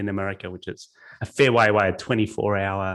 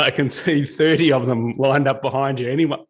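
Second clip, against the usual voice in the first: exasperated plea; 4 semitones higher, 6 dB louder than usual. Retold or imitated. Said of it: "I'm like".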